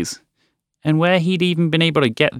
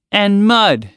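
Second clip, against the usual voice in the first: frog voice; 8 semitones higher, 4 dB louder than usual. Acted. Frog listing ingredients.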